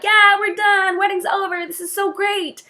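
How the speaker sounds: imitating a bland couple after the wedding, mock chirpy; mock casual. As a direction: make fun of a bored couple. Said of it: "I'd seen a couple be like".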